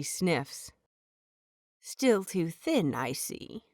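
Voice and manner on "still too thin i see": stern healer. Acted. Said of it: "pinning him with a sharp glare".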